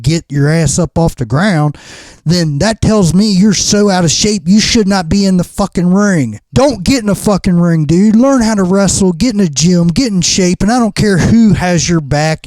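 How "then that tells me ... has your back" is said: heated rant. Real, not acted. Ranting at the lazy wrestler.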